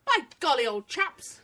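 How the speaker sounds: hammed-up British "old chaps"; stagey British exclamation; mock British accent. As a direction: put on a jokey British accent. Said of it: "listen to your best British accent".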